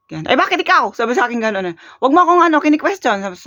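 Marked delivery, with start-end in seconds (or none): 0.3-0.9 high, sharp mock outrage; imitating angry grandma. Grandma turning on the vlogger, imitated angry high voice. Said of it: "nagalit na talaga". 2.0-3.2 high, sharp mock outrage; imitating angry grandma. Grandma turning on the vlogger, imitated angry high voice. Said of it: "nagalit na talaga".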